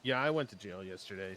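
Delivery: put-on a loose Cajun accent on the whole line. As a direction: say it as a Cajun swamp man. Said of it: "stop doing the accent".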